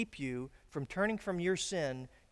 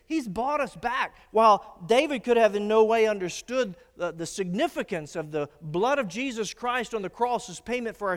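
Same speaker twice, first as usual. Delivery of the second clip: raised-pitch sermon delivery; impassioned preaching; 5 semitones higher, 6 dB louder than usual. Real, not acted. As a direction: preach it with urgency, punching key words. Preaches with rising force.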